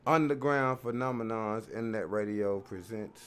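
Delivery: slow hyped station intro; radio announcer. Acted. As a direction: present the show like a DJ.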